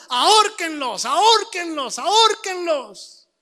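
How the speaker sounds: imitated mob cry. Women on the hill calling for a hanging, mimicked shouting. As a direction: mimic a crowd crying out, drawing out the last. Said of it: "las mujeres ahí gritando".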